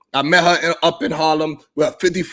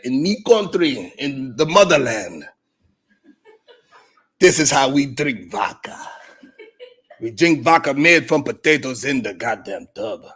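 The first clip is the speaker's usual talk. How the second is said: put-on slow Russian accent. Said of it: "She said".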